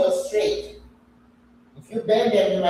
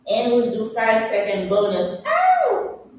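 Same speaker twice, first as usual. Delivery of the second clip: laughing strain; 4 semitones higher than usual. Real, not acted. Final bonus seconds of plank.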